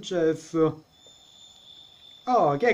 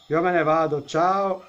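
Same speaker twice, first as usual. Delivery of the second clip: louder, huffy goodbye, going up on ciao; mock storming off; 2 semitones higher, 4 dB louder than usual. Player fed up with the haunted house, loud mock exit. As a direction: announce you're leaving in a fake huff.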